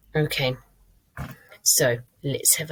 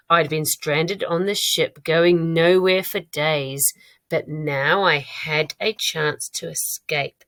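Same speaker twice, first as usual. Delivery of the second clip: slow, measured read-aloud; really slow reading. Shown as a demonstration. Teacher rereading the diary for mistakes, slow measured reading. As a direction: read each phrase slowly and distinctly. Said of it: "I'm gonna read it really slowly".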